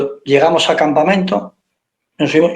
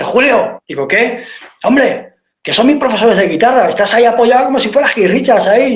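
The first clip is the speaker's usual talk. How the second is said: higher, mock-scolding friend; pitched-up friend telling him off; friend's scolding; 6 semitones higher than usual. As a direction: hiss it at him like an embarrassed mate.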